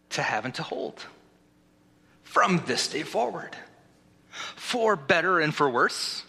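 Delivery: measured vows, phrase by phrase; wedding officiant. Acted. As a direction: pause after each phrase for the groom to repeat. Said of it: "Repeat after me".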